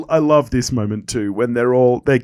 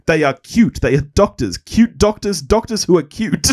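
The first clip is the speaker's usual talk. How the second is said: lightly imitated sitcom line, higher as it builds; Rachel's line delivery; 4 semitones higher, 3 dB louder than usual. Podcaster quoting a favourite line about cute doctors, lightly imitated. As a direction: quote it emphatically, pitch climbing on the repeats. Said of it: "I love this line from Rachel".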